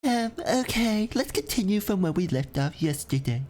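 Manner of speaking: stern teacher calling on a student. Acted. Voicing the teacher in game.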